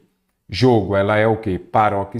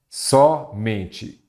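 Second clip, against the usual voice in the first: syllable by syllable. Shown as a demonstration. Teacher splits word into syllables.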